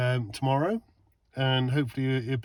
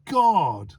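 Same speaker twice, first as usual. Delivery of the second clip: slow, high, loud oh my God; amazed exclamation; 6 semitones higher, 6 dB louder, much slower than usual. Real, not acted. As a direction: drag it out in awe. Sees bright reverse lights.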